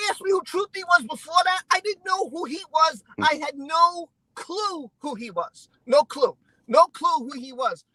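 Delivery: real anger, hammering the denial; worked-up, emphatic anger; really angry. Real, not acted. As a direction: vent it with heavy stress on key words. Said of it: "I'm sorry, I'm really angry".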